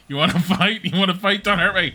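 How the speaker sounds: high, loud squeaky voice; squeaky taunt then plea. Pretend. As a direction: squeal like a cartoon cow. Voicing cow again.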